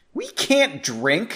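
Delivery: high, reproachful scolding tone. Reading a story aloud, a character refuses a drink: scolding. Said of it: "she scolded".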